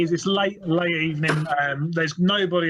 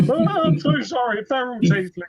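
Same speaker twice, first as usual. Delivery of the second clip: high-pitched start, dropping as it goes; hammed-up anxious apology from a barman; flustered apology; 5 semitones higher, 3 dB louder than usual. Barman apologizes after being corrected.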